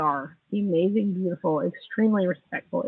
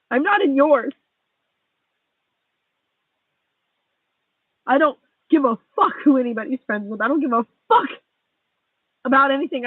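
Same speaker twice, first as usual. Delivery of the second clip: angry rant; 5 semitones higher than usual. Real, not acted. Heated rant at a friend who hurt her.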